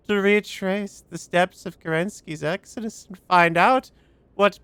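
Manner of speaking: a hint of an eerie computer, rising to urgent; lightly voiced solemn machine; creepy AI voice. Reads AI character's lines.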